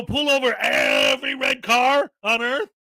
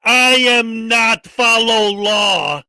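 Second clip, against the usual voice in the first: mocking dumb voice; 8 dB louder, much slower than usual.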